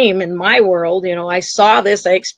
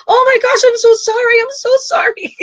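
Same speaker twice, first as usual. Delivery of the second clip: much higher, crying out sorry through tears; crying apology; 14 semitones higher than usual. Acted. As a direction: sob out the apology, voice cracking high. Souls breaking down apologizing.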